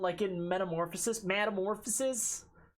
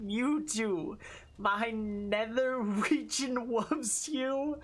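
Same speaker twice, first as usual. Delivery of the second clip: Discord mod voice. Acted. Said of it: "Discord mod voice".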